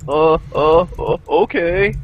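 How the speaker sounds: high, loud fussy customer voice; mock customer. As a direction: squeak out a dithering caller. Imitating phone customers.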